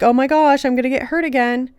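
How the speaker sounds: lightly hammed-up fearful inner voice; ego flipping out. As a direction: play the scared ego, quick and light. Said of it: "your ego flips out like".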